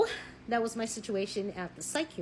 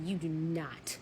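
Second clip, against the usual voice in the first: slow firm warning; 3 semitones lower, slower than usual. Retold or imitated. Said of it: "I said".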